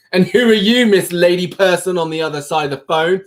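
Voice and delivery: high, hammed-up challenge; mock indignation. Streamer taking on Miss Lady Person, mock indignant. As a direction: confront them in pretend outrage. Mock confronting an unnamed caller.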